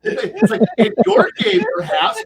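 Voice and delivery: high and loud, cracking up; laughing. Real, not acted. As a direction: repeat it through real laughter. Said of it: "repeats earlier line laughing".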